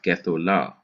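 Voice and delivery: gethola with the accent on the final la; gethola, short first syllable, stressed ending; stress on last syllable. Shown as a demonstration. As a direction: hurry through "ge" in gethola and land on "la". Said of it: "is going to be on the last syllable".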